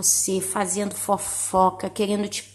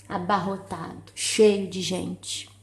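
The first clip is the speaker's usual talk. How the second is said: hushed; 4 semitones lower, 5 dB quieter, slower than usual. Real, not acted. Hushed on crowded hell.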